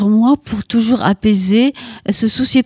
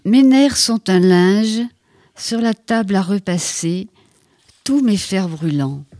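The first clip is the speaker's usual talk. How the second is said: slow, hushed haiku reading with long pauses; poem reading; slower than usual. Acted. Poet reading her autumn haiku to the host, slow and hushed. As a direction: let each line settle, slowly.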